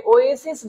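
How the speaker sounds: ওয়েসিস said slowly, starting on a clear O vowel; demonstrated pronunciation. Shown as a demonstration. Teacher showing students how the word starts, slow demonstrated ওয়েসিস. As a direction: draw out ওয়েসিস from an opening O sound. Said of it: "এটা মূলত এরকম ওয়েসিস".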